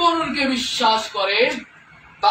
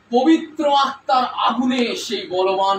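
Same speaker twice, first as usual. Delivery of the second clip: preaching shout; 4 dB louder than usual. Acted. Preaching climax.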